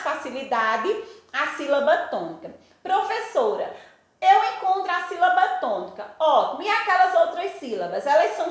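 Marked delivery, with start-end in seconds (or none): 2.8-6.1 lightly voiced pupil, higher pitch; imagined pupil. Pupil telling the teacher they found the stressed syllable, lightly voiced. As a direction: pipe up a little like a pupil in class.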